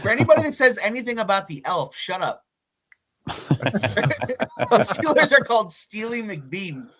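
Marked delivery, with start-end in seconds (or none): 3.3-6.9 giggling through the words; laughing. Real, not acted. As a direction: laugh as you say it. Laughing at mascot name.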